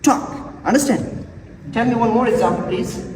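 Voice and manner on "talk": "Talk" with a puffed T and no puff on the K; aspirated T, unaspirated K. Shown as a demonstration. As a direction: puff the T of "Talk", hold back its final K. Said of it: "Both are present in this word".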